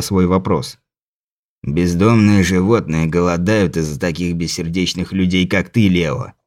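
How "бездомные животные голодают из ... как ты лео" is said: low, soft reproachful leprechaun. Acted. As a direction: scold him low and quietly. Leprechaun answers without looking.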